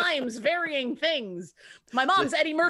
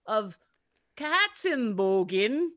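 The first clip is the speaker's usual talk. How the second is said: bad German accent; slower than usual. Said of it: "we both clearly have rights to do a bad accent".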